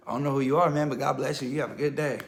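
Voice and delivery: laughing, loud brush-off; nervous laugh. Retold or imitated. He laughs the creepy caller off before hanging up. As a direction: laugh it off and hang up.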